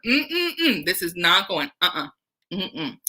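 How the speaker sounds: tutting "mm-mm" of a disapproving father; disapproving hums. Acted. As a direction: hum your refusal. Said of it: "Sulpice is quite angry".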